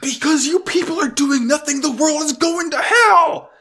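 high furious yell. Retold or imitated. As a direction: scream it high and outraged. Judo yelling at admiral.

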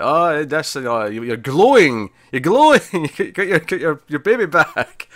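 high, loud, drawn-out mock cooing; hammed-up gushing over a mum-to-be; gushing wives. Other wives fawning over Serena, gushing.

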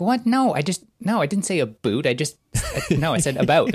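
retold flustered denial; mock indignant protest. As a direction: protest in mock disbelief, breaking into a laugh. Retold protest at being teased.

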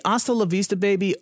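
bad Arnold accent. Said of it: "not a good accent at all".

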